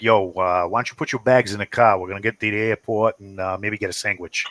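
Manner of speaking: put-on relatives' thick Italian-American accent. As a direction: talk like the Italian-American cousins. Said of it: "talk like this".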